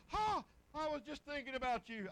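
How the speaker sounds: bright laughing surprise at the door; surprised greeting. Retold or imitated. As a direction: greet a friend you didn't expect.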